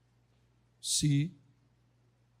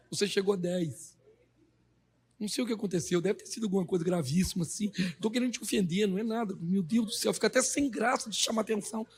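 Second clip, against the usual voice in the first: timid apologetic boss; 2 semitones higher, faster than usual. Pretend. Boss to late employee, mock timid apology. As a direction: tiptoe around scolding him.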